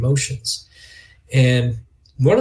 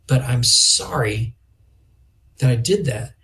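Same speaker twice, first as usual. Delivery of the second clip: sincere apology. Shown as a demonstration. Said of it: "But geez".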